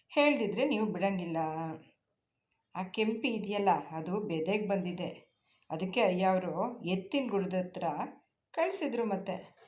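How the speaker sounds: hesitant, embarrassed reluctance; said with difficulty. Acted. Farmhand embarrassed telling the lady about the cow, hesitant. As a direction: force the words out awkwardly. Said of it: "ಕಷ್ಟಪಟ್ಟು ನುಡಿದು".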